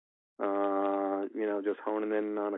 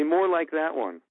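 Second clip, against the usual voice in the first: choosing a take; 7 semitones higher, 3 dB louder, slower than usual. Shown as a demonstration. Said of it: "them to say".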